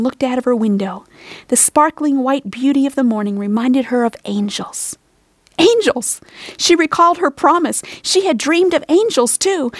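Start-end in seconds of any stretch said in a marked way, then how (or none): 5.6-9.7 sudden realization. A narrator's reading.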